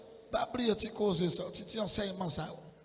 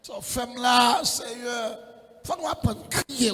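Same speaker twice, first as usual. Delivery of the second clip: crying out in prayer; 3 semitones higher, 4 dB louder than usual. Retold or imitated.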